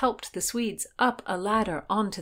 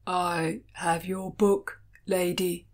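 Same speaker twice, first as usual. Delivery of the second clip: stolid boatman; slower than usual. A narrator's reading. Boatman character replies.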